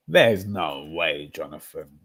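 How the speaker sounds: "There's no way" drawn out slowly; slow, heavy head-shaking delivery; slow disbelief. Real, not acted. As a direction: stretch every word in disbelief. Disbelief at Arteta's choice.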